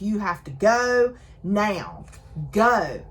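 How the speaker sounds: drawn-out, urgent order, half-yelled; retold mild yell. He orders her to leave after the earthquake, mock yelling. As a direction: imitate yelling without full volume. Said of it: "And he's yelling at her".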